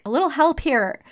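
high, loud plea for help, yelling; yelling at God. Retold or imitated. Stuck in the car, she yells at God for help. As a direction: throw the words up at the sky in frustration. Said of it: "I literally screamed out loud".

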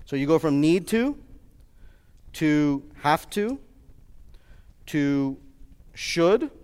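slow, each level spaced out; walk them through the ladder slowly; spelling out each step with long pauses; slowed repeat. Shown as a demonstration. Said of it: "I'm gonna go through it again".

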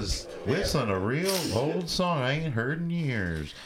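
a hint of a creaky old neighbor; old man voice. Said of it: "That's my old man impression".

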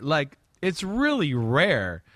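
usual speaking voice

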